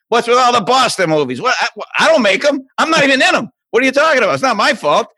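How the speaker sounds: high-pitched exasperated Boston protest; mock indignant. Blamed for all the Boston movies, comically indignant. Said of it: "everybody gets mad at me".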